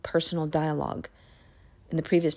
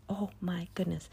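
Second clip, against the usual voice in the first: soft awed murmur; quiet overwhelmed oh my goodness; awed hush; 10 dB quieter than usual. Real, not acted. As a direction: breathe it out in awe.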